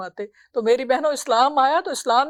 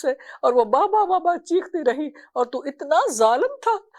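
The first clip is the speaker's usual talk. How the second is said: higher, grieving reproach; tearful rebuke; 4 semitones higher than usual. Acted. Prophet rebuking the father while weeping, higher and grieved. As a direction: scold him through tears. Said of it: "آپ اتنا رو رہے تھے".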